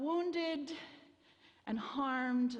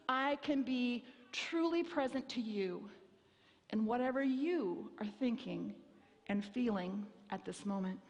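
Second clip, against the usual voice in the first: confident caring; 3 semitones higher than usual. Retold or imitated. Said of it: "authoritative in terms of".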